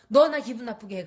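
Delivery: loud accusing jab at 너; blaming accusation. Shown as a demonstration. Demo of the wrong way to tell someone you're upset, loud blaming. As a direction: point the finger with 너 stressed. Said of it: "하지만".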